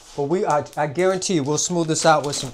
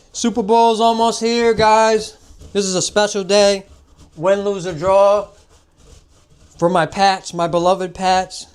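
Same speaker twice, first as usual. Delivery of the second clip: excited hype; 3 semitones higher, 4 dB louder than usual. Real, not acted. Hyping the Super Bowl.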